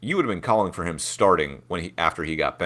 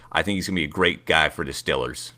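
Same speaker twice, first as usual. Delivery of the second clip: put-on Pittsburgh Yinzer accent winding down; Yinzer Bob; 3 semitones lower than usual. Host ending the Yinzer Bob bit, Pittsburgh accent. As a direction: finish the rant in a Pittsburgh accent. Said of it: "Yinzer Bob".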